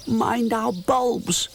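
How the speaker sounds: slow whispered warning; imps warning. A narrator's reading. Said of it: "they shout".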